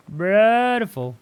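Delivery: very slow, high and loud exclamation; loud, soaring, pleased drawl; bigger drawn-out delight. Real, not acted. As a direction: stretch it out and push it way up. Repeats it bigger.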